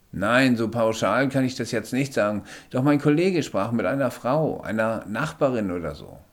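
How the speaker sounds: höher und lauter, bestimmter Sanitäter. Acted. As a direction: fordert den Patienten energisch auf liegen zu bleiben. Sanitäter antwortet dem Patienten. (Sanitäter beugt sich über den Patienten, höher und lauter)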